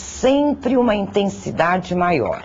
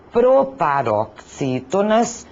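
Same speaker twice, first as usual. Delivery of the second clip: syllable by syllable; slower than usual. Shown as a demonstration. Teacher spells out a new term.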